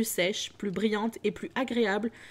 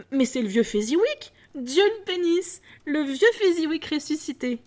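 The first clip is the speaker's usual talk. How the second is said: much higher and louder, thrilled exclamation; overexcited; 7 semitones higher, 6 dB louder than usual. Acted. Scrooge recognising his old master, loud and overexcited. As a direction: cry out in delighted disbelief. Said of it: "Scrooge, surexcité".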